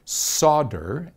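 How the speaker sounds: solder said SAW-der, no L; French origin word. Shown as a demonstration. Host showing the French root word, solder as SAW-der. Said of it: "in French, solder".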